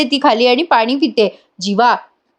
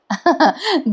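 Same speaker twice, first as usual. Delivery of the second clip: light laugh; 5 semitones higher, 4 dB quieter than usual. Real, not acted. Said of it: "गंमत केली".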